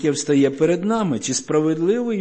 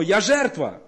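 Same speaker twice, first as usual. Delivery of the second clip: self-pitying cry; 8 semitones higher than usual. Retold or imitated. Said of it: "ми кричимо".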